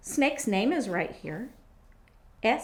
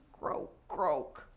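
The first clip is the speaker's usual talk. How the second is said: frog croak; 6 semitones lower, 5 dB quieter than usual. Shown as a demonstration. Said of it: "say croak when we sing".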